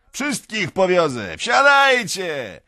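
high, drawn-out rowdy holler; shouting. A narrator's reading. Young peasant offering everyone a ride, shouting. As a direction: bellow the invitation to everyone around. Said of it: "krzyczy jeden z nich".

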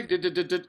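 rapid-fire stuck "d" sounds; mock stutter. Friend teasing the one who stumbled, mock stammer. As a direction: imitate someone stuck on a consonant.

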